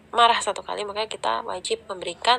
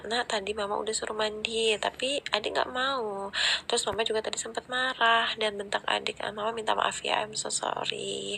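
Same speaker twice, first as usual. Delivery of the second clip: put-on kneel and apologise gently to your child; calm apology. Shown as a demonstration. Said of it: "mulai bicara dengan nada datar".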